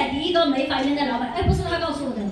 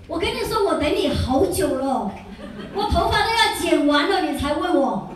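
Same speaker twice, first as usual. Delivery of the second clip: lightly imitated eager outburst; playful acted complaint with raised energy; mock relieved outburst; 3 semitones higher than usual. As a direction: blurt it as if finally asked. Acts partner relieved at being asked.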